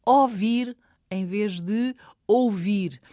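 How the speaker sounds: "ouvir" squeezed to "ovir" first, then said in full, slowly; slow demo: "ouvir" clipped, then "ouvir" whole; dropped syllable demo. Shown as a demonstration. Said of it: "por exemplo, entre lisboetas".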